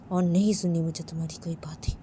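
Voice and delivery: fast, unvoiced whisper of और नहीं सुननी; whispered refusal. Sanjay repeats to Uma that he won't listen, in a whisper. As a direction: hiss the refusal under your breath.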